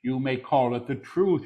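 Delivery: deliberate full-voice repeat; measured proclamation. Real, not acted. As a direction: proclaim it clearly, word by word. Same words repeated in full voice.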